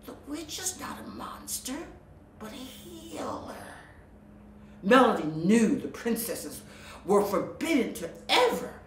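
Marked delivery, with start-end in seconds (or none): 0.1-3.8 higher, hushed, persuasive; sly snake voice. Acted. Sea snake praising the witch to Melody, soft and sly. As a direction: sell the lie softly. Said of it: "the sly creature insisted".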